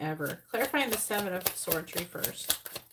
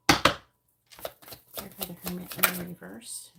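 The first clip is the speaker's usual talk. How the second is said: "Clarify the Hermit in the reverse" stretched out slowly and said louder; slow, insistent repeat; 3 dB louder, slower than usual. Real, not acted. Repeating her card request, slow and insistent. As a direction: draw each word out slowly, like asking one more time.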